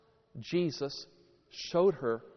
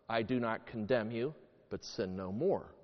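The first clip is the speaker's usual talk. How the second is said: soft, lower-pitched reassurance; gently forgiving; 4 semitones lower, 5 dB quieter than usual. Acted. Jesus to the woman he won't condemn, gently forgiving. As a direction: forgive gently, letting the voice settle low.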